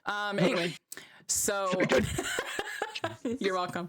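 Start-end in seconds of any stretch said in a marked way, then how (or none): 1.8-3.3 French bulldog impression. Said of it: "That was my, uh, French bulldog impression".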